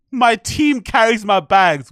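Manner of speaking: hammed-up pampered celebrity line; mock rich diva. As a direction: lord it over everyone. Mocking a rich woman's line.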